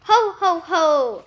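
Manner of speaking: a lightly voiced jolly Santa laugh; mild Santa boom. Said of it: "a booming voice go".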